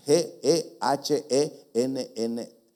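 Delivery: Gehenna spelled letter by letter, very slow; slow spelling. Shown as a demonstration. Preacher dictating the spelling of Gehenna, slowly.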